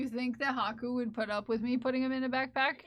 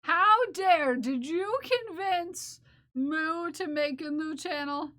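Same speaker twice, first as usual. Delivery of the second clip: mock outrage; 4 semitones higher, 5 dB louder, slower than usual.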